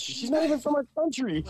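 bad Russian accent. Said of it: "That didn't even sound Russian".

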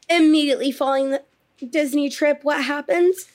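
fast words between hiccups; pushing through the hiccups. Real, not acted. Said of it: "Oh, I'm hiccuping".

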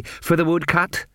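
slow and bashful; shy. A narrator's reading. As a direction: add it timidly, almost as a question. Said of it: "he said shyly".

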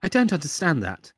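high chirped beeps, then prim apology; smarmy British assistant. Acted. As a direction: parody a smarmy computerized British voice. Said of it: "smarmy British people doing the voices".

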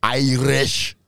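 put-on Irish-Scottish brogue; lightly exaggerated Celtic accent attempt; uncertain Celtic accent. Shown as a demonstration. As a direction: try the word in a muddled brogue. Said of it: "What was that?".

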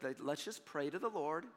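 low, soft, unshowy suggestion; normal praying talk. Shown as a demonstration. Preacher correcting a showy pray-er, calm normal voice. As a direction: bring it down to everyday speech. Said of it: "You don't talk like that normally".

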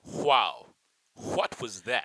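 halting, put-on American accent; attempted American accent. Shown as a demonstration. British actor auditions an American accent for mocking co-hosts, attempted American accent. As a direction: try a shaky-convincing American accent on a line. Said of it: "Let's hear the American accent".

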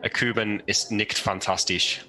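slow, hammy fake German accent; mock German, dragged out. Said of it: "Give me your worst fake German".

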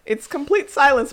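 high squealing laughter; words through giggles; laughing hard. Real, not acted. Laughing at ghost podcast idea.

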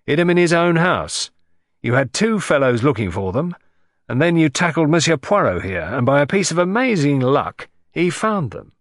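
gloating over a caught crook; hearty police inspector. Acted. Inspector to the unmasked thief, hearty and gloating. Japp's voice.

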